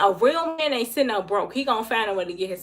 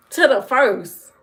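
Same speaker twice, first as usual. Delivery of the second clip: mocking repeat; 7 dB louder, slower than usual. Mocking his excuse back.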